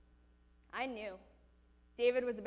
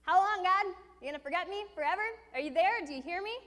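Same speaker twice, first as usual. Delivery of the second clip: high, whiny complaining voice; whining; 7 semitones higher, 7 dB louder, faster than usual. Retold or imitated. Mocking David as a whiny complainer, high and whiny. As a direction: whine it like a sulky child. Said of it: "Whining and saying".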